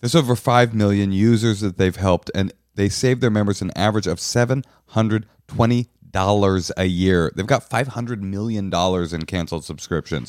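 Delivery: upbeat sponsor pitch read to listeners. Acted. Host pitching a finance app to listeners, bright ad read. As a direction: sell the app like a podcast host.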